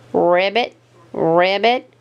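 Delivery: low croaking ribbit; frog croak. Acted. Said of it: "croaked the frog in surprise".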